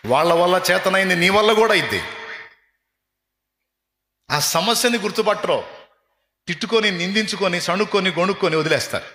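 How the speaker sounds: loud, high, fervent sermon voice; full-force preaching. Acted. Preacher urging the congregation to stop cursing themselves, loud and high.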